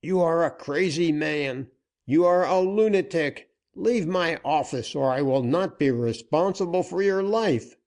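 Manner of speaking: high, loud panicky threats; frantic banker. A narrator's reading. Cornered banker ordering Dick out, high and frantic. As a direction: shout him off in panic.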